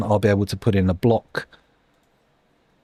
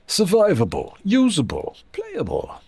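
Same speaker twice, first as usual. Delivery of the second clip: rising squeaky list; 10 semitones higher than usual. Pretend. Frame rate jokingly accepted.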